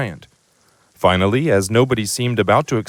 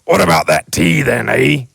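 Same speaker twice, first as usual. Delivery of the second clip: eager giant; 5 dB louder than usual. Acted. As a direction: rub hands, ask eagerly. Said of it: "he said".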